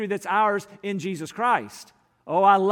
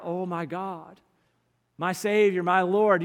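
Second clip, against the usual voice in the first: heartfelt cry; slower than usual. Shown as a demonstration. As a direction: call on God from the heart, building in volume. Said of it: "this is a cry of your heart".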